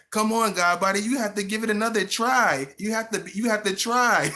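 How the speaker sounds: the little man on your shoulder urging you on, high and eager; funny little shoulder voice. Retold or imitated. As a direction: pitch it up and cheer like a tiny coach. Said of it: "that other little man on your shoulder".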